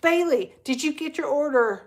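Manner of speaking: imitating an anxious call to a friend; frantic call. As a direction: call out to her in a mock panic. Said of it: "is like".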